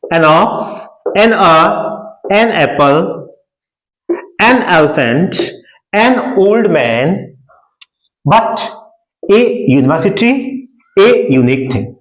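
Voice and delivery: put-on an old man very slow; drawn-out teacher model; slow model reading. Shown as a demonstration. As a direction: stretch an old man for learners. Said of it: "teacher modeling phrase".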